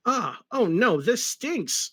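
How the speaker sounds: a hammed-up little yelp of alarm; mock scream. Sonic facing the charging Nazi guards, mock panic. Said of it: "screamed Sonic".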